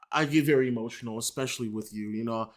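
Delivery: soft mock lovestruck plea; mock tender. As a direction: coo the apology softly. Reading fan's apologetic love text.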